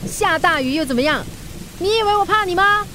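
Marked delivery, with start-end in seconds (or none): 1.8-2.8 defiant shout. Acted. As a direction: charge into the storm, all fight. Rider braves rain for Karen.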